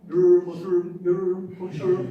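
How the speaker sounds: mock the Black Sea Turkish accent with a loud rolling R. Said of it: "Did you hear some people here?".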